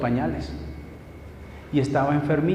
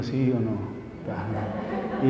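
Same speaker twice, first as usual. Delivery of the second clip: laughing; 6 semitones lower, 7 dB quieter, much slower than usual. Retold or imitated. Hiding watch from admirer, laughing.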